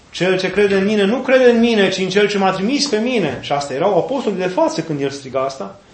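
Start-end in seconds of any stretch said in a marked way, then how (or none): 0.1-3.4 raised, higher proclaiming voice; crying out. Retold or imitated. Jesus crying out to the apostles, raised voice. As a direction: call it out to the crowd. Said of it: "a strigat și a zis".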